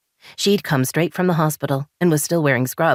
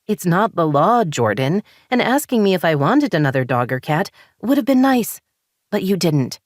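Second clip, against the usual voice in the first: higher, frustrated rising voice; wife venting frustration at husband, higher and heated; 5 semitones higher than usual. Acted. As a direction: let the frustration boil over. Daisy keeps arguing.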